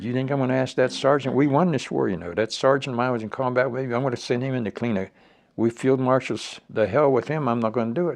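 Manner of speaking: fired-up refusal; heated rant. Retold or imitated. Retold heated argument with colonel.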